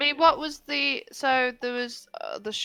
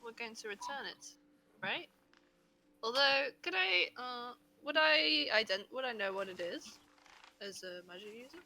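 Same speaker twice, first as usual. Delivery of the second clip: too far from the mic, faint; quiet voice loud hiss; 9 dB quieter than usual. Real, not acted. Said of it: "Kat, you're, you're really quiet".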